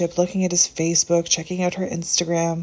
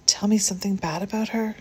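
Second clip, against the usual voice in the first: pleading; 4 semitones higher than usual. Acted. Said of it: "she pleaded".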